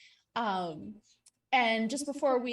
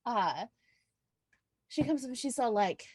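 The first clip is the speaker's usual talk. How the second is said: normal talking voice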